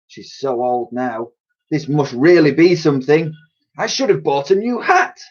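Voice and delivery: high, excited gossiping Londoners; gossiping crowd voices. Acted. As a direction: swap between chattering women.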